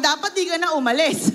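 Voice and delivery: laughing through the words. Real, not acted. Preacher laughing at Elijah's contradiction. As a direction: chuckle at the irony.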